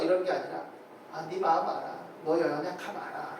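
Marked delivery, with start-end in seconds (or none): 1.1-3.4 lower, softened voice of understanding; gentle consoling. Acted. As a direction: soothe them as a forgiving God would. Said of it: "라고 다독이고 위로해 주시고".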